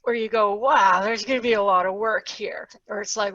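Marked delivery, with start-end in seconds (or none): 0.5-2.7 hushed whisper of dawning dread; breathy daunted whisper. Acted. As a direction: whisper it like the workload just hit you. Voicing a daunted business owner.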